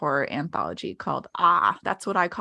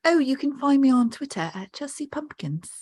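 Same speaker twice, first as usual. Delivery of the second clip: mock posh English accent, pitched up; 8 semitones higher than usual. Asked by cohost for her English accent, mock English accent. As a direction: put on a chirpy English accent. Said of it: "Do your impression of an English accent".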